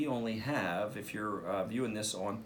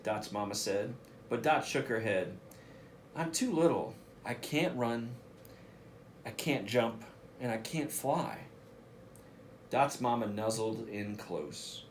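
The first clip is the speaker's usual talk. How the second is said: put-on lively read-aloud voice for young listeners; reading to children. Principal reading a picture book to students, lively storytelling voice.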